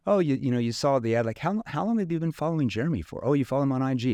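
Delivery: curious connection question. Shown as a demonstration. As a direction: sound intrigued by their story. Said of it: "a curious tone".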